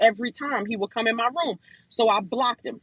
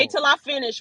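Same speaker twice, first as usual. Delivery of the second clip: insisting; 4 semitones higher, 3 dB louder than usual. Real, not acted. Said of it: "'cause I'm on a roll".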